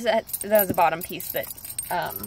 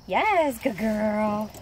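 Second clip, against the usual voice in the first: dog praise; 3 dB louder, much slower than usual. Real, not acted.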